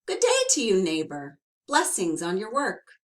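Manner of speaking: butter up the little man; polite greeting. Acted. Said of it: "tipped his hat politely".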